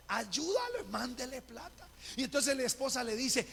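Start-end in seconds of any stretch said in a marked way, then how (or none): 0.1-1.9 high, calling dream voice; Dios. Retold or imitated. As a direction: imitate a divine voice calling from above, high-pitched. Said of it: "la voz que era Dios decía". (voz aguda que llama en sueños)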